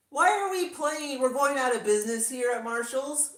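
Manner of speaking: high, loud chirpy phony voice; fake bubbly voice. Shown as a demonstration. Vlogger mocking a fake store haul, high chirpy voice. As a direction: keep the sugary influencer act going. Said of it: "Instead, I'm like".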